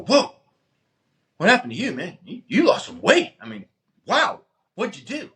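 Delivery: amazed friend. Retold or imitated. Friend noticing the weight loss, high amazed voice. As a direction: gush over the change you see.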